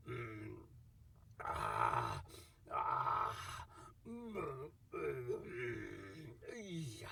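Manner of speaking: low, drawn-out contented mms; a drinker relishing his wine; satisfied savoring hums. Acted. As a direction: hum with pleasure after drinking. Savoring after ten bowls.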